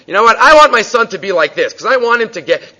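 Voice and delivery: father getting carried away with excitement; excited father. Retold or imitated. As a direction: gush about wanting this for your son. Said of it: "he gets excited".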